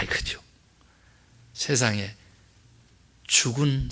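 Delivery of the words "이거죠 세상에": usual speaking voice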